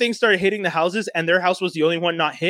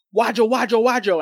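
imitated noise; 2 semitones higher than usual. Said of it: "starts hearing something go".

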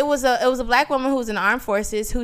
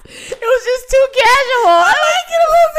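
high, loud, laughing disbelief; incredulous laughing; 13 semitones higher, 9 dB louder than usual. Real, not acted. Recalling a friend's casual gun, laughing in disbelief.

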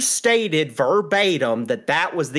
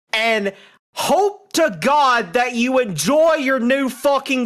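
building furious rant, climbing higher toward the end; ranting tirade; 4 semitones higher than usual. Acted. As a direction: spit it out angrier and angrier. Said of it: "ranting and raving".

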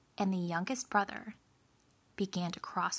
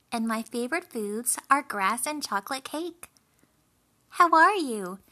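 louder, higher-pitched chatty little goat; young goat; 4 semitones higher, 8 dB louder than usual. A narrator's reading. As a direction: introduce yourself brightly as a friendly little goat. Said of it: "and replied".

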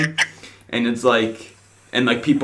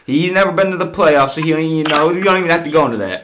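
put-on Philly accent; 3 semitones higher than usual. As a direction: mouth off like a Philly fan. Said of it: "Is this supposed to be my Philly accent time?".

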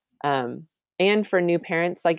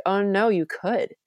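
gently reassuring reply; 6 semitones higher, slower than usual. Retold or imitated. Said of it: "I'm like".

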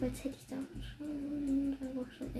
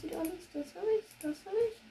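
high relieved voice; 6 semitones higher, faster than usual. Real, not acted. Checking inventory, relieved.

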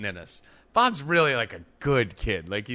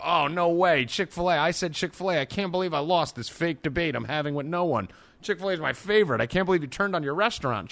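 higher, hammed-up outrage over fries; mock outrage; 5 semitones higher than usual. Friend coaching Bob, hammed-up fake indignation. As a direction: fake indignation, pitched up and played big. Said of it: "you're gonna go".

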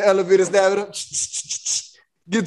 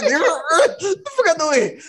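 high, drawn-out retold yell; laughing mock yell; 6 semitones higher, slower than usual. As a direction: replay the shove through laughter.

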